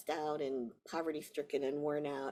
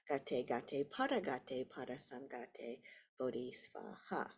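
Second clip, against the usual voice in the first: low-key recited mantra, fading softer; mantra recitation; 3 semitones lower, 6 dB quieter than usual. Shown as a demonstration. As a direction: recite the mantra quietly to its close. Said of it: "usually that's quite recognizable as well".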